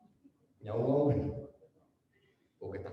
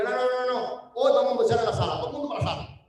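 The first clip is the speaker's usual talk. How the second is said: bossy pastor; faster than usual. Retold or imitated. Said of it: "Le digo".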